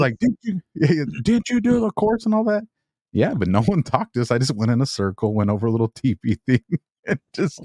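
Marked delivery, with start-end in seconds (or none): 0.2-2.6 incredulous questioning. Retold or imitated. Commander questioning the driver.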